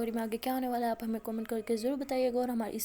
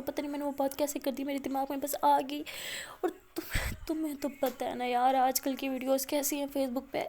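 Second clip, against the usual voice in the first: crying plea; 2 semitones higher, 3 dB louder than usual. Acted. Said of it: "بہت زیادہ رونے لگ جاتی ہے".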